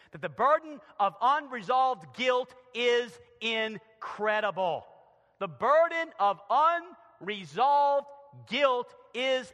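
weighty pulpit emphasis; emphatic preaching. Acted. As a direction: press the point on the congregation. Preaches the first point.

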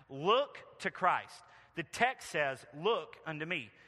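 a hint of a twangy country preacher's accent; broad country accent. Country preacher urging his congregation to look to Christ, broad country accent. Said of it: "He gets up in his broad Essex accent".

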